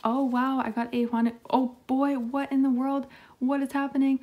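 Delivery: high, loud excited squeals; thrilled disbelief. Real, not acted. Vlogger to viewers after pulling a double card, thrilled. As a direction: sound stunned by your luck.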